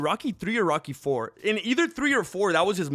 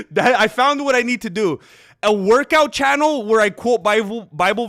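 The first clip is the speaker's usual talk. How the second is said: laughs, then says it loud through the laugh; cracked up by his own plan; 5 semitones higher, 7 dB louder than usual. Real, not acted. Streamer tells chat his new niche while laughing loudly.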